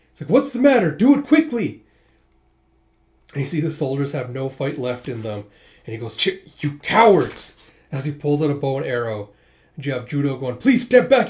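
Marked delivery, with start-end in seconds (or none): 0.3-1.8 much higher, much louder screamed command; frantic furious shout. Acted. General berating frozen soldiers. 6.2-7.7 slow, louder spat insult; contemptuous snarl. Acted. General spitting contempt at soldiers. 10.6-11.3 much higher, louder plea; urgent warning. Acted.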